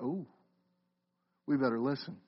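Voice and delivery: a hint of a sobered congregation member; sudden sobered listener. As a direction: voice the caught-out listener, hushed. Listeners startled by the address.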